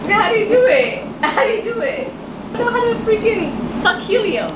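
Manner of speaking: high squeaky laughing fit; laughing hard in a high voice. Real, not acted. Helium attempt, laughing.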